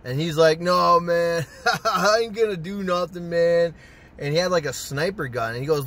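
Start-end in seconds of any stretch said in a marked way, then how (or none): 0.6-3.7 laughing, put-on stoner voice; lightly voiced giggly stoner; imitated stoner buddy. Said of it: "They're high out of their mind".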